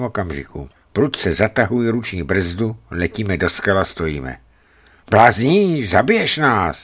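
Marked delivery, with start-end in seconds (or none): 5.1-6.8 high, loud outburst of reproach; alarmed cry. A narrator's reading. Anči cries out at the driver after sudden braking, alarmed. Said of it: "vykřikla Anči".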